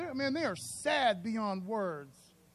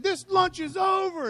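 hammed-up shout, slow and much louder and higher; mock furious shout; 11 semitones higher, 12 dB louder, slower than usual. Pretend shouting at the boss lady to end lunch, hammed-up furious shout. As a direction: bellow it like a pretend tantrum.

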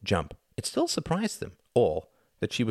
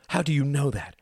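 higher-pitched challenge; demanding; 8 semitones higher than usual. A narrator's reading. Mother challenging her son's claim, demanding. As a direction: demand an answer, pitch lifted. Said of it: "demanded his mother".

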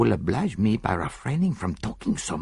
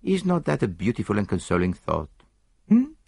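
mild reproof; 4 semitones higher than usual. Acted. Poirot lecturing the disarmed Italian, mild reproof. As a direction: chide him like a naughty child. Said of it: "a tone of mild reproof".

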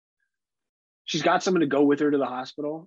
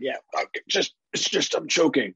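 embarrassed choker; 2 semitones higher than usual. Acted. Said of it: "They're like".

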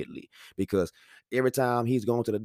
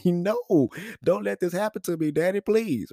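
put-on high-pitched begging little boy; pleading child; 8 semitones higher, slower than usual. Son begs dad to stop the shot, pleading. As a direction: imitate a kid pleading with daddy.

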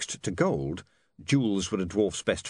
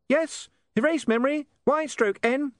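giggly sneering imp; 3 dB louder than usual. Acted. Imp prompt repeated.

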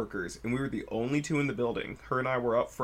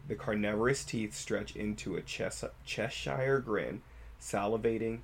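storytelling voice. Shown as a demonstration. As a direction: tell it like a campfire horror tale. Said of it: "Storytelling voice".

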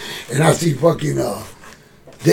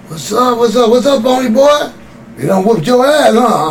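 lightly voiced biker; 7 semitones higher, 4 dB louder than usual. Old school biker greeting.

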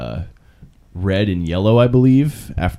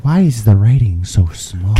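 louder, put-on old man grumble; mock old person; 3 semitones higher, 6 dB louder than usual. Friends imitating seniors, put-on old voice. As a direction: complain like a confused grandpa.

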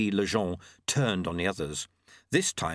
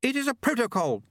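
high, sharp retort; curt, high-pitched irritation; snapped; 14 semitones higher, 3 dB louder than usual. A narrator's reading. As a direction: snap it in a high lady's voice. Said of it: "snapped Lady Lejeune".

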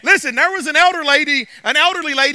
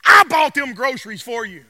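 gloating; 3 semitones higher, 6 dB louder than usual. Retold or imitated. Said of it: "And he says".

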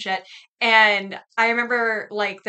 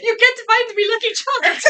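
high, laughing fake Irish accent; badly faked leprechaun Irish; mock Irish accent; 12 semitones higher, 4 dB louder than usual. Pretending to be from Dublin, giggly mock Irish accent. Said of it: "start talking like you're from Dublin".

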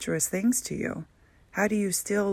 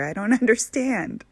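higher and louder, laughing through it; laughing disbelief; 5 semitones higher, 5 dB louder than usual. Retold or imitated. Arguing, laughs mid-line.

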